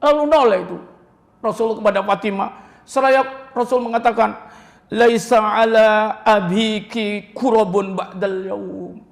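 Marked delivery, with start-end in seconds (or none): 4.9-9.0 slow, solemn Arabic words; slow Arabic quote. Acted. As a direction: recite the Prophet slowly. Prophet's words recited.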